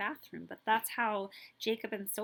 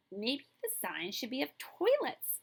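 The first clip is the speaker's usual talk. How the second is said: shouted; 5 semitones higher than usual. Acted. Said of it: "shouted Noah".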